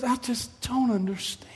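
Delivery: hushed, whispery puzzlement; Brother Branham. Retold or imitated. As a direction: act out quiet bewilderment, trailing into a whisper. Acts out Brother Branham's bewilderment.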